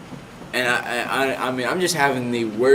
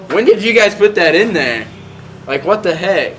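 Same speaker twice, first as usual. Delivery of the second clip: high, loud bewildered outburst; acted-out alarmed surprise; startled disbelief; 6 semitones higher, 5 dB louder than usual. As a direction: demand an answer in mock shock. Acted shock at finding the IV.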